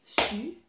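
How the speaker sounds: Suzanne split into three beats, Su-zan-ne; syllable by syllable. Shown as a demonstration. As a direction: clap out Suzanne one syllable at a time. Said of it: "il y a trois syllabes". (Suzanne scandé syllabe par syllabe)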